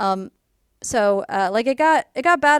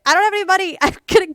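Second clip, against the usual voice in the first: mock terror; 7 semitones higher, 5 dB louder than usual. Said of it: "I was terrified".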